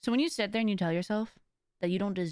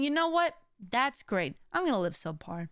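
sarcastic mock; 3 semitones higher than usual. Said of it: "I'm over here saying".

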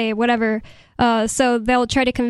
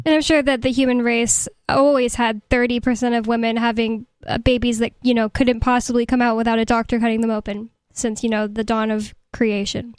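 sarcastic. Real, not acted. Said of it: "You're being sarcastic".

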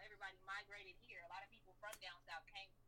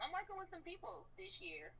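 slow, higher first try at the line; drawn-out first take; 11 semitones higher, 4 dB louder than usual. Shown as a demonstration. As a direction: rapper telling the interviewer about new collaborators, slow and pitched up. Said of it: "repeats the line differently".

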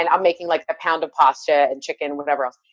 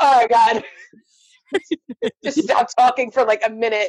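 exasperated mother-in-law; 4 semitones higher than usual. Retold or imitated. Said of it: "she's like".

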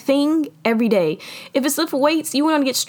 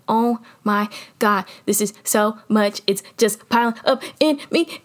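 acted overwhelm. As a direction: space out each word under the weight. Voicing feeling overwhelmed by pressure.

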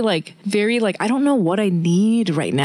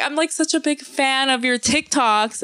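higher-pitched gushing fan imitation; tipsy admirer; 5 semitones higher than usual. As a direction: lightly play a drunk fan gushing. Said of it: "she was drunk".

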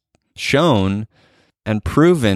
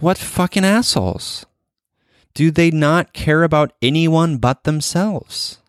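higher, exasperated venting of anger; frustrated outburst; 7 semitones higher than usual. Retold or imitated. Podcast host venting her anger at anti-vaxxers, exasperated outburst. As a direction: spit out the private angry thought, pitched up. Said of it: "my own frustration and my own anger".

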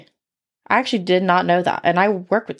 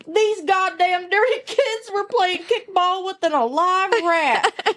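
put-on Southern redneck accent; 8 semitones higher than usual. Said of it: "stop with the accent".

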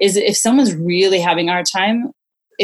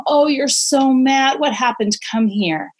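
put-on higher, slow and gentle, comforting an upset child; soothing mom voice; 5 semitones higher, slower than usual. Mother calming her furious son after he slapped his brother, slow and gentle.

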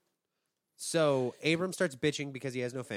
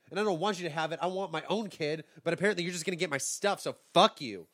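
acted exasperated griping; mock indignant; 4 semitones higher, 4 dB louder than usual. Abram resenting his servant getting his stuff, mock indignant. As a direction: build to a blunt dismissal.

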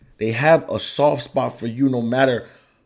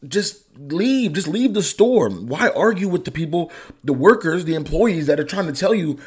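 high-pitched exasperated rant; heated rant; 7 semitones higher than usual. Real, not acted. Podcast host venting at maskless shoppers, higher and heated. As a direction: voice climbing as he gets fired up. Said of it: "No, like, the pitch is getting higher".

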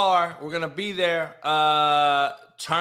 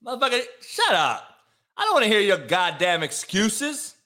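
angry; 4 semitones higher than usual. Real, not acted. Snapping at a chat viewer.

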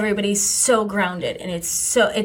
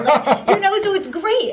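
laughing; 11 semitones higher, 3 dB louder, slower than usual. Real, not acted. Laughs while praising lunch.

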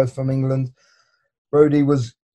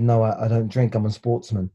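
mildly put-on proper English accent; best English voice; 3 semitones lower than usual. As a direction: lay on polite English for the officer. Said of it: "So I put my best English voice".

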